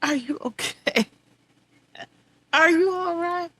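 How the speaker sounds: a hushed, gentle imitation of her mother; lightly voiced mother asking softly; mother's soft question. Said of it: "she'll say".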